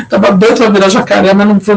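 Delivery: chuckling through the joke; laughing. Real, not acted. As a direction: laugh while you say it. Joke about missing his vaccine. (rindo enquanto fala)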